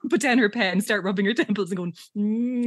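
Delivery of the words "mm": higher mock-concentrating "mm"; concentrating hum. Jessica rubs her temples mid-test, concentrating. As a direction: hum as if straining for a psychic answer. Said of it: "like she's concentrating".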